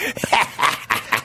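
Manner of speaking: real wheezy cackle with little voice; cackling laugh. Real, not acted. Guest laughing at the host's bit, real cackle. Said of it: "cackling old woman".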